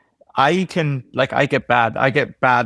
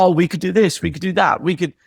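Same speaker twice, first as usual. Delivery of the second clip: higher, eager retold pitching; eager suggestions; 4 semitones higher than usual. Employee pitching changes to the bosses, eager. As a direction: rattle off ideas like a keen employee.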